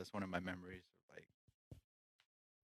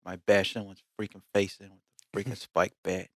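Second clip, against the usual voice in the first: softer put-on Italian wise-guy accent; 5 dB quieter than usual. Threatening like a wise guy, light Italian accent. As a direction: lightly mimic an Italian-American mobster accent. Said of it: "let's get an Italian accent next time".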